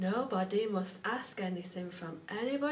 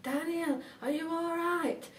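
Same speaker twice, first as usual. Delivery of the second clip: mild, higher-pitched storybook shout; anxious shout; 4 semitones higher than usual. Acted. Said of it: "and he shouted".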